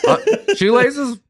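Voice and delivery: hammed-up cop pressing for answers; police interrogator. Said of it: "like a police officer talking to a kid".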